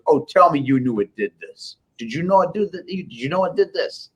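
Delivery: high-pitched mock New York dealer; imitated New York accent. Dealer quizzes the software owner, imitated New York accent. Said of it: "in the New York accent".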